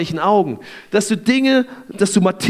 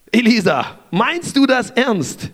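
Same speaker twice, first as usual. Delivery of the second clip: slow, higher, disbelieving; incredulous; 5 semitones higher, slower than usual. Retold or imitated. Servant doubting Elisha's words, slow and disbelieving. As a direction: ask it as if he can't believe it.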